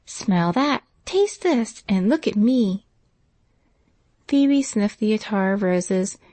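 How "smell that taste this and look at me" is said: put-on gleeful girl calling out, pitch jumping up; excited child's cry; cried out. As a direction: show off a treasure to a friend. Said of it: "a voice cried out".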